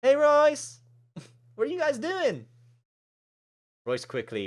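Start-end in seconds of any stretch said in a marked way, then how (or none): 0.0-2.4 high-pitched, bubbly character greeting; cheery friend. Acted. Plays Maddie arriving.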